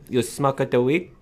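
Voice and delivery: high, slow imitated Asian accent. Party guest repeating his question, mock Asian accent. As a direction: put on an Asian accent, stretched into a rising question. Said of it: "doing Asian accents".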